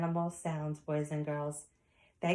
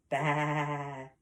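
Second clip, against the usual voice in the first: long, steady sheep baa; sheep bleat; 3 semitones lower than usual. Acted. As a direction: imitate a sheep with a drawn-out bleat. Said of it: "A sheep says".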